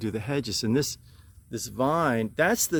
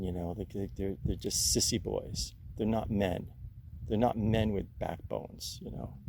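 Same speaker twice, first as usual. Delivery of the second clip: upset rant; 4 semitones lower, 6 dB quieter than usual. Real, not acted. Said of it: "I'm sorry to be so upset".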